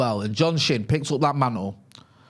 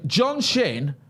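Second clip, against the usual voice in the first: drawn-out announcement of a big act; tour announcer; slower than usual. Acted. Host bigging up John Shin's visit, tour announcer intro. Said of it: "sounds like he's on tour when you say it like that".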